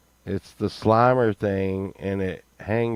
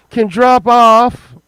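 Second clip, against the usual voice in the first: incredulous echo; 12 semitones higher, 13 dB louder, slower than usual. Real, not acted. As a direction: drop said high, loud and slow. Echoes phrase incredulously.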